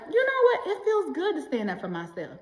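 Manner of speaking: giggling, rising then settling; laughing self-pride. Pretend. Voicing a viewer feeling proud while laughing. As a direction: laugh through it, pleased with yourself.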